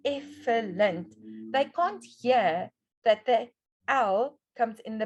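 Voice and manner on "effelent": ELEPHANT said as "effelent", F before L; misordered sounds. Shown as a demonstration. Teacher reading a child's misspelling, sounds swapped. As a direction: swap L and F, syllable by syllable. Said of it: "but they write".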